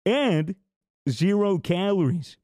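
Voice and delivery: upbeat sponsor pitch; ad read. Acted. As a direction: sell it like a commercial.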